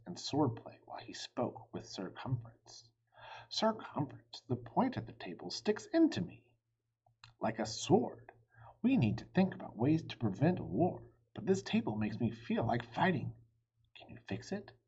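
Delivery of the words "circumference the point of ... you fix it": higher, lightly voiced king, aggrieved; a hint of a grumpy king; king complains to his knight about the table; King Arthur complaining.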